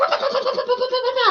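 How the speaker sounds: rapid-fire sputtered puh-puh-puh babble; mock pressure-valve sputter; imitated venting noise. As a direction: let out a burst of nonsense syllables. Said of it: "I got out of my system".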